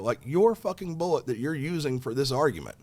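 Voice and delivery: angry rant at the ammo rep; heated callout. Retold or imitated. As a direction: tear into his argument. Calling out rep's argument.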